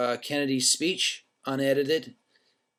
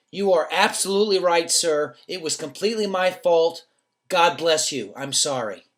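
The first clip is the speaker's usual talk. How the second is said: loud, overly sweet apology; hammed-up courteous apology; exaggerated politeness; 8 semitones higher, 8 dB louder than usual. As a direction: kill him with kindness. Answering the angry driver kindly.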